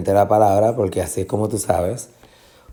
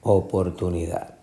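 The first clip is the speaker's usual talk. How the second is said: softer, lower Oportunidad ending on DAD; final stress; 4 semitones lower, 7 dB quieter than usual. Shown as a demonstration. Teacher confirming the answer, oportuni-DAD. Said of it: "es la sílaba tónica".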